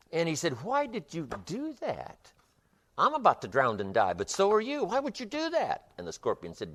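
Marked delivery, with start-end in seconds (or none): 0.6-5.9 high, stretched cry of disbelief; frog's anguished disbelief. Acted. Frog cries out to the scorpion, high and disbelieving. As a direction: wail it out, stunned and betrayed.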